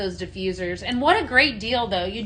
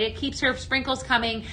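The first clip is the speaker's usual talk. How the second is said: usual speaking voice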